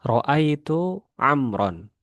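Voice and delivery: ro'aitu amron drawn out slowly in Arabic; slow Arabic reading. Shown as a demonstration. Teacher reading ro'aitu amron slowly to students. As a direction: read ro'aitu amron syllable by syllable. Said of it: "Contohnya, mislu".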